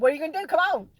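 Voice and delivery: high, loud egging on; loud playful challenge. Retold or imitated. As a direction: bring it on, teasing. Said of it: "And I said".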